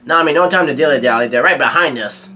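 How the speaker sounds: quick, mild mock yell; Sanji's urgent yell. Sanji yells to Nami while carrying her, hurried mild yell. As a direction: rush it out like a retold warning. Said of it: "Sanji yells out".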